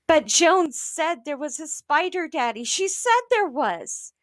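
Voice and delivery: a hint of a whiny child; insistent child.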